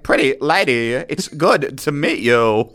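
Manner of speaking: slow, halting joke pickup line; lightly done celebrity impression; Christopher Walken. Greeting a girl at a party, slow mock impression. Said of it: "That's all my Christopher Walken".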